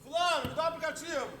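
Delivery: father asking his son for the phone; retold father demand. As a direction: call the kid for the app. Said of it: "uma vez foi assim".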